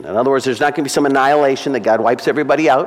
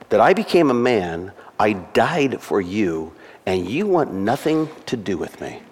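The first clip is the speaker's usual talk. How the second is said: grieved Jesus voice; 3 dB quieter, slower than usual. Acted. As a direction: speak as a wounded Jesus pleading, slowing right down. Jesus voiced pleading with unbeliever.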